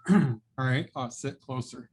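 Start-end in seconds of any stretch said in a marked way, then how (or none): 0.1-0.9 speaking up for the mic; projecting more clearly; louder. Real, not acted. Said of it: "I'll speak louder".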